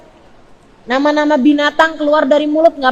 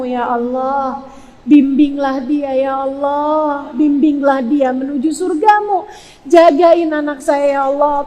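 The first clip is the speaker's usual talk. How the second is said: imploring prayer. Shown as a demonstration. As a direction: linger on each call to God. Models a mother's pleading prayer.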